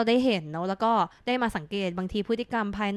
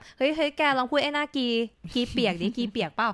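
teasing a friend; 3 semitones higher than usual. Retold or imitated. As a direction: needle a friend, slowing down on the last words. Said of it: "ไม่ใช่แบบอยู่ดีพูดขึ้นมาลอยๆ แบบ".

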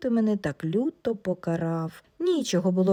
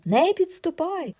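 high cry, stress on не; repeated frightened shout; 9 semitones higher than usual. Acted. Wife shrieks again at husband, higher stress on не. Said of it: "кричить".

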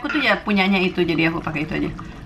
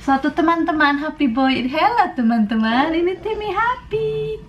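higher sing-song praise for a pet; squeaky praising a dog; 5 semitones higher than usual. Acted. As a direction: coo happily at the dog. Praising dog in baby talk.

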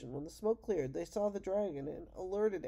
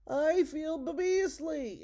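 slow, loud, higher dragon moan; dragon groan; 10 semitones higher, 7 dB louder, much slower than usual. Acted. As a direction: moan it out like a sick beast. Father speaks as dragon.

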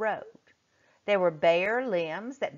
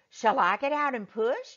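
eager; 8 semitones higher than usual. A narrator's reading. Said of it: "Joe asked eagerly".

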